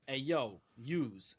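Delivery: lightly imitated Jersey street accent; regional Jersey accent. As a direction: toss out a stock Jersey greeting. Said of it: "people will have that".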